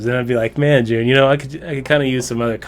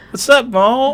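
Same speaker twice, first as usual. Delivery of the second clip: put-on Kentucky accent, very high-pitched; 12 semitones higher, 4 dB louder than usual. Trying out how she could sound, greeting Mo in a Kentucky accent. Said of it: "She could like be in like a Kentucky accent".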